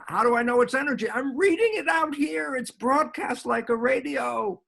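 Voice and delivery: high-pitched, insistent rush of explanation; excited explaining. Acted. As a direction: argue it eagerly, pitch lifted right up. Answers his own acted challenge emphatically.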